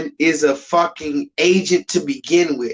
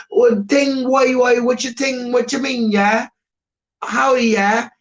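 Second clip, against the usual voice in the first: higher mock Canadian accent; Canadian accent, hammed-up and higher; Canadian rapper; 6 semitones higher than usual. Mocking a rapper in Canada with a higher Canadian accent. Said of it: "If a rapper goes to Canada".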